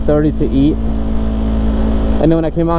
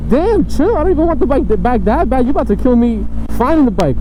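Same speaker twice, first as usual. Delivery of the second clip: high-pitched retold alarm; mock panicked protest; 9 semitones higher than usual. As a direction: plead in exaggerated, high-voiced panic. Acts out protest at speeding driver.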